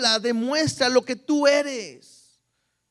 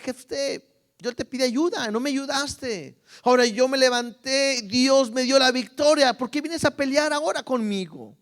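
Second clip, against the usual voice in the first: voiced complaint; 4 semitones higher than usual. Preacher voices Ephraimites' complaint.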